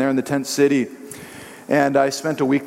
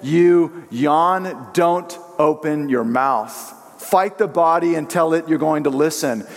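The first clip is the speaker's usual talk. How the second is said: stern command; slower than usual. Retold or imitated. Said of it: "he commanded this".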